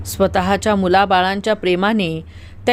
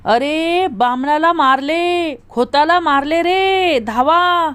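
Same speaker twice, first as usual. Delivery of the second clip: high, slow cry raising the alarm; old woman's alarm cry; 5 semitones higher, slower than usual. Acted. Old woman shouting for help to the village, slow alarm cry. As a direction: call out to the village, stretching each word. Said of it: "एका म्हातारीने ओरड केली".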